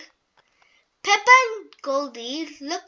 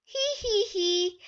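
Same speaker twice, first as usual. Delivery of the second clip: giggling; 5 semitones higher, 3 dB quieter than usual. Acted. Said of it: "George giggles".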